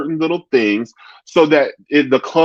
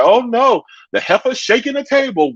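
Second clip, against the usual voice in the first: high-pitched imitation of a reality star; 10 semitones higher than usual. Quoting a reality star on shaking tables, in a high imitated voice. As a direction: quote her in a raised, put-on voice. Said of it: "she was like".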